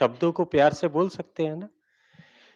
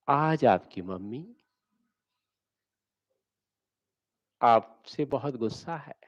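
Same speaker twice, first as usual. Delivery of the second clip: lovingly; 3 semitones lower, 5 dB quieter than usual. Shown as a demonstration. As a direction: tell of anger gently. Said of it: "ऐसे ही आपने उल्टा बोलना है".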